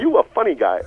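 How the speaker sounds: high, loud, amused big-man voice; a jolly giant chuckling back; imitating Dawkins. To his teasing seatmate, a high loud amused imitation. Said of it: "that's exactly what he said".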